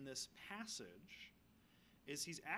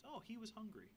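a higher, softer ironic "Oh, he was hungry"; mock understatement; 5 semitones higher, 4 dB quieter than usual. Shown as a demonstration. Preacher joking to the congregation, wry mock-surprised understatement. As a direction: say "Oh" up high, then "hungry" with a wry fall, wryly stating the obvious. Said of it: "I mean, I would say so".

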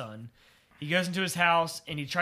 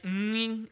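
high savoring hum; 5 semitones higher, 4 dB quieter than usual. Retold or imitated. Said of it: "It, like, cut to Ted".

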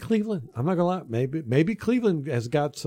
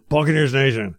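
calling out; 2 semitones higher, 5 dB louder than usual. Real, not acted. Rallying the fans on air.

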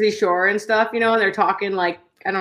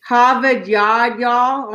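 slow Boston vowels with Southern y'all; drawn-out, muddled Boston accent; Boston accent attempt; much slower than usual. Podcaster copying co-host's Boston line, slow muddled Boston accent. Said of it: "it's a Boston thing".

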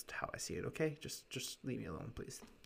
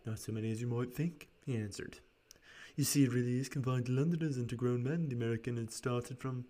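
a light rasp on Spaulding's lines; gently raspy clerk voice; 5 dB louder than usual. Acted. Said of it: "this raspy voice for him".

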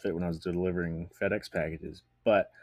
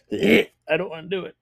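whiny; 9 semitones higher, 8 dB louder than usual. Real, not acted. Dreading the shot.

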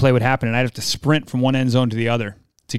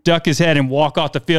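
ordinary talk

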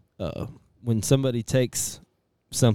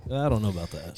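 whispering. Real, not acted. Whispered aside on mic.

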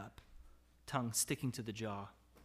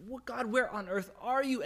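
voicing the despairing psalmist; 11 semitones higher, 4 dB louder than usual.

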